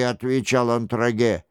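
usual speaking voice

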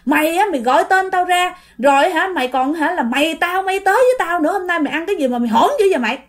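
acted angry rant, not shouted; uncle's scolding. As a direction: scold a younger neighbour indignantly. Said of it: "Xong cái cậu Tám mới la".

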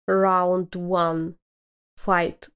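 booming arcade announcer call; fighting game announcer. Retold or imitated. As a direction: announce the round like Mortal Kombat. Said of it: "звук из игры Mortal Kombat".

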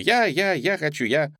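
put-on high, loud kids clamouring; little girls shouting to go first; excited shouts. A narrator's reading. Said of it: "с криками".

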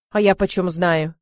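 usual speaking voice

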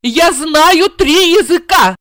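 high, slow brag; boasting. A narrator's reading. Blonde boasting to the wife. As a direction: show off your languages. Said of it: "похвасталась".

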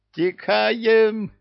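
shrill panicked imp squeal; hysterical squeal. Acted. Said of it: "истерично верещал бесёнок".

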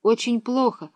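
put-on girl shouting into phone. A narrator's reading. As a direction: call out to be heard. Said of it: "крикнула она".

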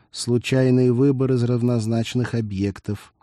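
detached flat cyborg answer; flat robotic выбор; indifferent. Acted. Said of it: "равнодушно отозвался Декс".

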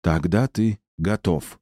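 slow, ceremonial pronouncement; solemn. A narrator's reading. Mother of the River pronounces the warrior ready, solemnly. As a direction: declare it with measured solemnity. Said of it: "Голос стал торжественным".

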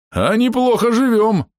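high, slow, joyful roar; joyful bark. Acted. Half-orc roars happily while charging. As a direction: roar with delight. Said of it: "радостно рявкнул Бом".

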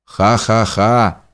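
slow, spaced-out owl laughter; understated mock laugh of an owl; owl's cry. A narrator's reading. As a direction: hoot a measured, eerie laugh like an owl. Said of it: "закричал где-то филин".

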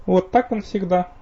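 high, slow fake-hurt pout; mock offended. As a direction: pretend to be offended, slowly. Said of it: "притворно обиделась эльфийка".

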